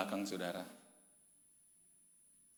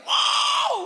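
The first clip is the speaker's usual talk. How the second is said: very high, loud whooping yell; demonstrated shout; 11 dB louder than usual. Shown as a demonstration. Preacher shows how to scream out pressure at the sea, full-force yell. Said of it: "Iya, teriak".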